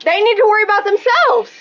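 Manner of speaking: angry yelling; loud sharp voice. Real, not acted. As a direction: shout it at the officer. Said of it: "Why are you yelling?".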